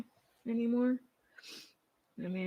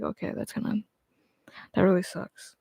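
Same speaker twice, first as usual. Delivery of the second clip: sympathetic whisper; 8 dB quieter than usual. Retold or imitated. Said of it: "then I can be like".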